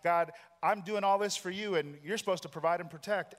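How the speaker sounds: mock-aggrieved prayer; complaining to God. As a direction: insist God owes you protection. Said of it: "what we say to God".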